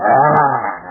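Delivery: roaring dad coming home; angry bear roar. Retold or imitated. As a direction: growl like a hungry bear. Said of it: "He'd go".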